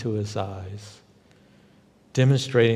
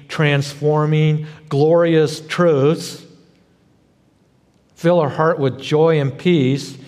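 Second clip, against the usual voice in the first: exasperated rising complaint, louder, stretching glorious truths; hammed-up Martha boiling over at Jesus; Martha losing it; 3 semitones higher, 4 dB louder than usual. Martha complaining to Jesus about her sister, exasperated and overwrought. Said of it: "she kinda loses it".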